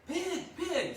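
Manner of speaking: loud laughing farm call. Shown as a demonstration. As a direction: holler for the pig. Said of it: "well, actually in a kind voice".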